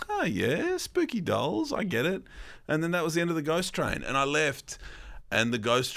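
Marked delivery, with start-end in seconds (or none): 0.1-2.2 sarcastic. Retold or imitated. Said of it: "And I was like".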